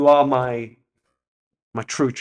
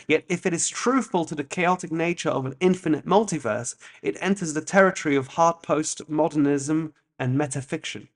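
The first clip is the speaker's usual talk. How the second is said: essay reading; 3 semitones higher than usual. Real, not acted. Reads essay aloud.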